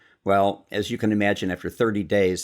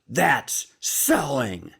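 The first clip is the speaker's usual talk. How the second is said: very slow, higher, savoured lesson; father's voice; 6 semitones higher, much slower than usual. Retold or imitated. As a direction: let the lesson land, word by word. Dad's punchline lesson.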